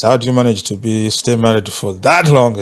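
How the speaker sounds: ordinary delivery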